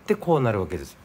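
Nagasaki dialect. Shown as a demonstration. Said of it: "よかっていうのは長崎弁ですね".

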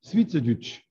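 "Schweizerdeutsch" in a Swiss German accent, "Schwiizerdütsch". Shown as a demonstration. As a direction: say "Schweizerdeutsch" the Swiss way, short "i" and "ü" sounds. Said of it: "when you say it with the Swiss accent".

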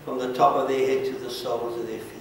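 earnest pastoral prayer, swelling then settling; fervent prayer. Acted. Pastor praying over the people at the altar, fervent. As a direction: pray over them with rising fervour.

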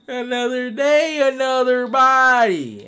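slow, menacing killer gloat; villain line. Acted. Killer gloating after taking the body, slow menace. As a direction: savor each word slowly.

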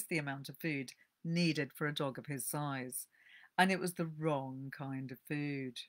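calm storyteller reading aloud; gentle book-reading voice; story narration. A narrator's reading. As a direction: read it like a cosy tale.

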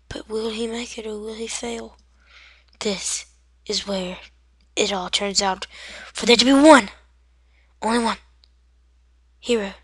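dramatic commentator narrating a tiny hero; playful epic sports commentary; mock play-by-play. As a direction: build suspense, then hush for the reveal. Mock commentary on own game.

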